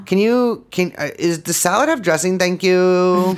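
whiny Kardashian voice. Retold or imitated. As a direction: rattle off the order, bored. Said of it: "it's like".

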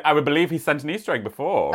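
letter read in a put-on Aussie accent; Australian accent. Podcaster reading a listener's letter on request, Australian accent. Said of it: "Please read in your best Australian accent".

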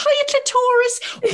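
high, drawn-out greeting with "Clitoris" as cli-TOR-is; mispronounced name. Pretend. Guest pretending to greet someone so named, mispronounced name. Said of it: "Could even be a name".

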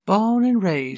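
high, loud mock-Southern voice; put-on Southern accent. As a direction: belt it out in a hammed-up Southern accent. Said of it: "nice John normal voice".

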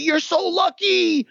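high, slow gushing voice of admirers; drawn-out high sing-song admiration; mock praise. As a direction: sing it out like people envying his luck. People praising his luck.

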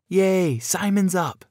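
put-on high-pitched, gleeful child's cheer; high, happy shout; little girl shouting. A narrator's reading. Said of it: "shouted one of the girls".

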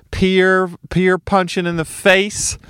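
incredulous. Acted. Mock-incredulous riff on peer violence.

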